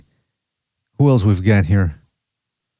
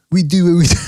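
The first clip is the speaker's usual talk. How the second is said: breaks into a laugh mid-line; 5 semitones higher than usual. Real, not acted. Host repeating his motto, laughing at himself. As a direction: let a real laugh slip out before the last word.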